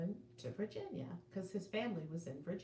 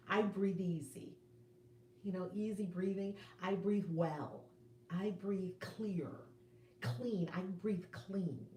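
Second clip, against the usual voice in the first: slow, deliberate affirmation, each word set down; calm self-affirmation, slowly, savoring each word; spoken affirmation; slower than usual. Shown as a demonstration. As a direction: say it like a promise to yourself, slowly. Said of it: "Keep saying the things that you want".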